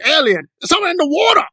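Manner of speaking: high, hammed-up British accent; mocking British impression. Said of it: "It's like".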